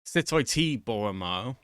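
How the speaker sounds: "Sut o'i ti" lifted, "bore 'ma" falling; careful Welsh phrase read-out; Welsh demo. Shown as a demonstration. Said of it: "so I can say them again".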